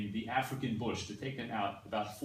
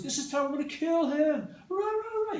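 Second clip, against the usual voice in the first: mock raging bark, much higher and louder; 14 semitones higher, 6 dB louder than usual. Teacher showing how rage talk sounds, mock raging bark. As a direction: roar it like you're in a rage. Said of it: "you're barking at the top of your lungs".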